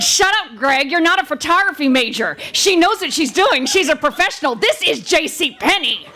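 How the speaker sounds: hissed through gritted teeth. Retold or imitated. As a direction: talk through clenched teeth. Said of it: "through gritted teeth".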